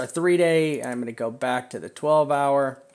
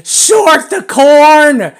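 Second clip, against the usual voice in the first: slow, drawn-out high yell; screaming; 12 semitones higher, 15 dB louder, much slower than usual. Retold or imitated. Trader yelling at his members to short. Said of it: "Screaming at members today".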